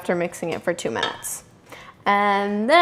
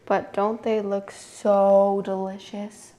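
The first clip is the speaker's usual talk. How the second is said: normal talking voice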